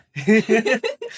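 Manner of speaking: high, loud laugh bursting out; sudden amused cackle; loud burst of laughter. Real, not acted. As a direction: laugh out loud, caught off guard. Host bursts out laughing at guess.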